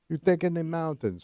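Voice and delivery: mock Eastern European accent; broken English, heavy Russian accent. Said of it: "Stop doing the Russian accent".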